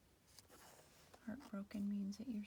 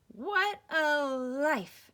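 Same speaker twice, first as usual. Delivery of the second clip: slow, higher, contented coo; 7 semitones higher, 16 dB louder, much slower than usual. Acted. Al cooing about his easy island life. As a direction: savor every word like a purr. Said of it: "Al cooed".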